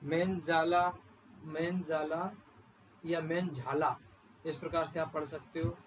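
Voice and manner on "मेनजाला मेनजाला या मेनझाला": "मेनजाला" with j, then "मेनझाला" with jh; two ways to say it. Shown as a demonstration. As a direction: offer both "मेनजाला" and "मेनझाला" as correct. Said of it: "इसको कई लोग मेनजाल भी पढ़ते हैं".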